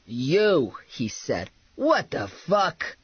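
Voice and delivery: drawn-out shock at an intruder; stunned disbelief. A narrator's reading. Man in his chair sees bounty hunter barge in, stunned. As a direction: stretch the words in stunned disbelief.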